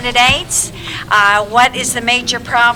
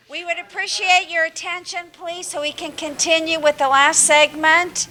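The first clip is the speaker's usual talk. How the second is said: teacher voice; 6 semitones higher than usual. Real, not acted. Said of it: "Get my teacher voice out here".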